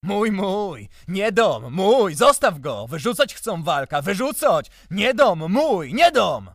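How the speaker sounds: very loud, high, distraught pleading; desperate wailing. A narrator's reading. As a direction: wail and plead at full voice. Desperate plea over Walek.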